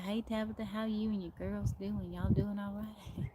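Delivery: imitated Tennessee country greeting; playful Tennessee twang, put on; Tennessee accent. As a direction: mimic a friendly Tennessee man's accent. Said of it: "he from Tennessee".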